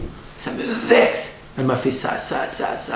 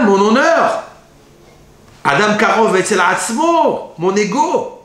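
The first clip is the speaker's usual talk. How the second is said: high, loud indignant questioning; strained, raised protest of a reluctant groom; exasperated husband; 8 semitones higher, 3 dB louder than usual. Acted. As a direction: whine like a man who resents marriage.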